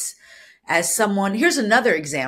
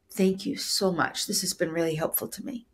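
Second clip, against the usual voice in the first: deep gratitude; 6 dB quieter than usual. Shown as a demonstration. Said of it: "deep gratitude".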